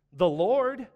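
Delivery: mom's solemn answer. Retold or imitated. Mom voiced answering her son.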